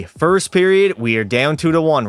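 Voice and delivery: sportscaster recap building to excitement; hockey announcer, pitch climbing at the end; play-by-play. Pretend. Live play-by-play of his game.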